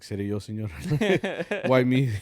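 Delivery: high, loud mock whine; mock dismay. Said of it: "I was like".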